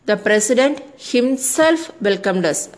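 "himself" set apart and emphasised, as a teacher's example; stress on HIMSELF. Shown as a demonstration. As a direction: lean on the word "himself". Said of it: "here we are stressing that part".

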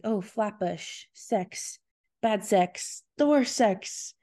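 acted dawning realization, rising at the end; slowly realizing. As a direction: piece it together bit by bit, with pauses. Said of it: "slowly realizing".

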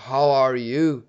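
a put-on accented "How are you"; imitated accent. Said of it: "tom grave na voz".

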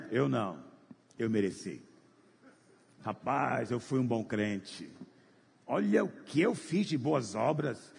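a lightly voiced proud churchgoer, slowed; hint of a self-righteous man bragging to his neighbour; smug proud believer. Proud believer boasting in heaven.

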